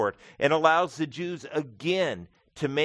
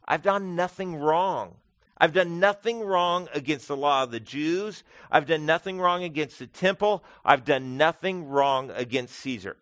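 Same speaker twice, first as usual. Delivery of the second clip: raised, firm repeated protest of innocence; bold declaration; 3 semitones higher than usual. Acted. Paul boldly declaring his innocence before Festus, raised and firm. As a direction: declare it boldly, each clause hammered home. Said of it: "quite boldly and simply declares".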